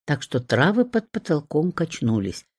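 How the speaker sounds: ordinary delivery, nothing marked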